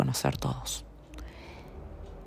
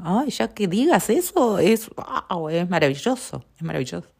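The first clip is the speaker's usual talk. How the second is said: mock gushing, much higher; delighted; 4 semitones higher than usual. Praising herself for noticing, a light gushing delight. Quoting her own delighted self-observation.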